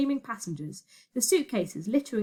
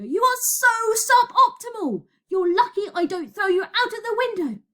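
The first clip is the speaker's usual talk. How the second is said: exasperated scolding; 12 semitones higher, 5 dB louder than usual. Acted. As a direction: berate it at the top of your voice. Berating the useless parchment.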